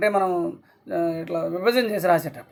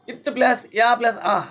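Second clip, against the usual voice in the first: slow spelling out; 2 semitones higher, slower than usual. Shown as a demonstration. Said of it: "నిత్య".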